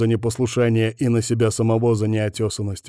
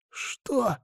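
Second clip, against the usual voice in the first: hoarse gasp; 13 semitones higher, 7 dB quieter than usual. Acted. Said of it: "просипел он".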